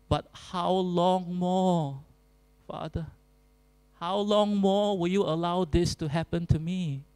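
mild pleading lament to the Father. Pretend. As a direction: stretch the question like an aching cry. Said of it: "we go to God and we say".

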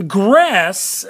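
"Gress" said clearly and firmly, falling; teacher pronouncing gress. Shown as a demonstration. Teacher names the root for the class, "Gress" firm and falling. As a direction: stress the root "Gress" as a model word. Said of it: "teacher models the root".

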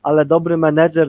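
ordinary talk

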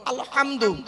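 আলহামদু with a strong h from the throat; throaty h in alhamdu. Shown as a demonstration. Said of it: "গলার ভেতর থেকে এটা উচ্চারণ করবেন".

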